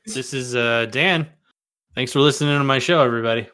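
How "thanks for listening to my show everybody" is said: quick outro. Shown as a demonstration. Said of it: "do an outro quickly".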